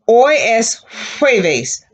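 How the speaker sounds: jueves with a puff of air on the J, slowly; slow hoy es jueves with airy J; slow, breathy J in jueves. Shown as a demonstration. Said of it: "Fill the air".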